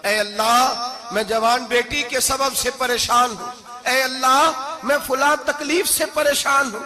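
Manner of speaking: mock weeping prayer. Preacher acting a weeping supplicant, rising from hushed to crying out. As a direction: plead with God, starting hushed and rising to a cry. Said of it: "जब मैं यूं रो के दुआ करूंगा".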